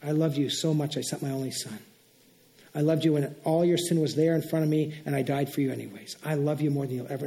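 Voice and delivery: low, soft, tender reassurance; God's loving reminder. Acted. Pastor voicing God's answer to a praying believer, tender reassurance. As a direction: voice God gently reminding someone of love. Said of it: "He's gonna start to remind you".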